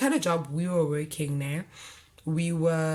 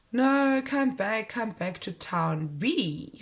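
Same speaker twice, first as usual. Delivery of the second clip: pleading call; 3 semitones higher, much slower than usual. Retold or imitated. Quoting him begging her back.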